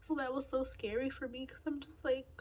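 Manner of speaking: real choked-up voice, pitch lifting; fighting back tears while explaining; getting emotional. Real, not acted. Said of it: "I was gonna get emotional".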